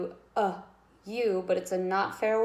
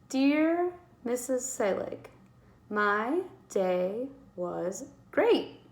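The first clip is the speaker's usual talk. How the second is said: "great" drawn out very slowly; teacher rereading the sentence slowly; slow dictation read; 3 semitones higher, much slower than usual. Shown as a demonstration. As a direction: spell it out word by word. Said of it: "how I'm going to end that sentence".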